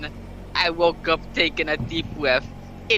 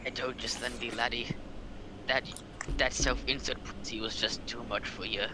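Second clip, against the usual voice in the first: mock taunt; 8 semitones lower, 12 dB quieter, faster than usual. Taunting Slender at grave.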